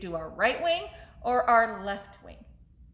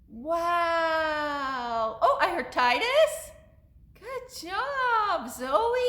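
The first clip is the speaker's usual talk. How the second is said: excited praise; 6 semitones higher, much slower than usual. Real, not acted. Storyteller hearing children's names, impressed and high-pitched. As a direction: praise them in a high, delighted voice.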